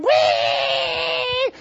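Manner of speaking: a sudden high, loud shout of joy; high whoop. Real, not acted. Preacher whooping as he retells shouting with his wife. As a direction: whoop in triumph.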